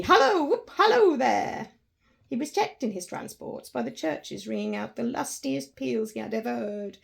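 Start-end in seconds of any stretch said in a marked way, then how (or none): 0.0-1.7 loud, much higher whoop. Acted. Scrooge whooping aloud at the window, loud joyful cry. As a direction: shout it out for joy.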